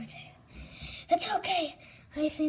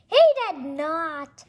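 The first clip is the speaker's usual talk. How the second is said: indignant shout; 9 dB louder than usual. Acted. Indignant protest.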